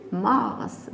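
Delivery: Mars with an audible final s; final S pronounced. Shown as a demonstration. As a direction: sound the S ending Mars. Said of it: "S se prononce". (Mars avec le S final prononcé)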